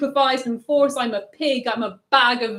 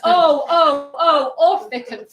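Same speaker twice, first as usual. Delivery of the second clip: laughing; 2 semitones higher, 5 dB louder than usual. Real, not acted. Laughing exclamation.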